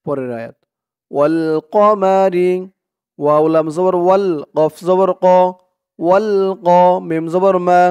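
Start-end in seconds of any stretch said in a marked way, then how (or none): 1.1-2.5 slow drawn-out ওয়াশ-শামসি; slow model word. Shown as a demonstration. Teacher modelling the word for students, slowly. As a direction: stretch ওয়াশ-শামসি syllable by syllable.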